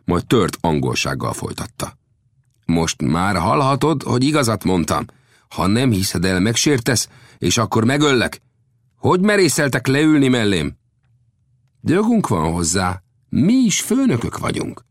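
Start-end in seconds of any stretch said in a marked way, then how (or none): 2.6-10.8 high, indignant chief, building to the question; heated. A narrator's reading. Offended chief threatens the strangers, heated. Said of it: "kiáltott fel az indián indulatosan". 11.8-14.8 assertion leaping high in pitch; asserting. Acted. Old Death claims equal rank, asserting.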